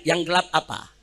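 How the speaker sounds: a touch of a reasonable official; patient official. Retold or imitated. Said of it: "mestinya pejabat undang mahasiswa tanya".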